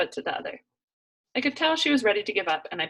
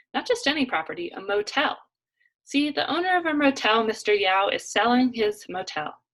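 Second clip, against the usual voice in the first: Macy's voice; 4 semitones higher, 3 dB louder than usual. Acted. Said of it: "put aside her Macy's voice".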